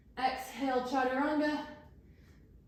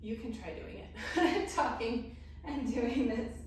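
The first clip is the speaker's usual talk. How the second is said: breathless laugh; slower than usual. Real, not acted. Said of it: "'Cause I'm getting out of breath".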